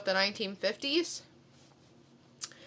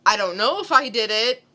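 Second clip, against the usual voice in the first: mild mock panic; 5 dB louder than usual. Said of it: "freaking out like".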